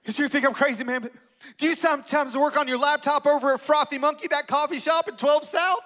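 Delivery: high-pitched redneck caricature; over-the-top redneck. Retold or imitated. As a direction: question them like an excitable redneck. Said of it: "redneck human being".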